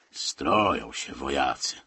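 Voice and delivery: sour, acted sneer; snide. A narrator's reading. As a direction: draw it out scornfully. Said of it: "powiedział zgryźliwie Kozłowski".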